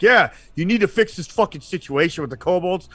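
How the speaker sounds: irate complaining citizens. Retold or imitated. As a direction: act out fed-up townsfolk griping at court. Citizens bitching at the king.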